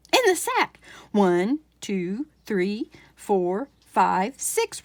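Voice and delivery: prove it to her number by number; insistent farmer. Acted.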